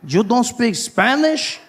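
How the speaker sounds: mild mock disbelief; incredulous. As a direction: act shocked he can't speak Spanish. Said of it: "Guy was like".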